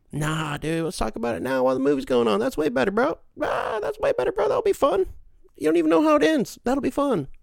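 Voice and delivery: hammed-up eager bro, high and rising; mocking sarcasm. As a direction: build to loud, high mock enthusiasm. Sarcastic imitation of eager talker.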